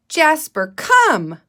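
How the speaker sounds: teacher shows how to call a cat so it comes; calling your cat. Shown as a demonstration. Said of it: "sounding like you're calling your cat".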